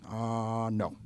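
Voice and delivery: a light put-on movie-character "Uh, no"; movie-quote voice. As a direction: toss it off like a line from a film. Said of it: "he talks in movie voices".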